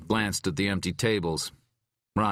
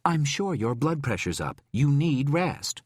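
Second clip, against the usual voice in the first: higher, firm nurse-like urging; insistent caretaker; 9 semitones higher than usual. A narrator's reading. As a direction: press him to rest. Tom voiced, urging rest.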